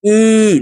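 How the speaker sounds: "إي" as a long, steady ee; downward "ee". Shown as a demonstration. Teacher showing the letter that dives under, long ee. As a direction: draw out "إي" as the vowel that goes down. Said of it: "لتحت".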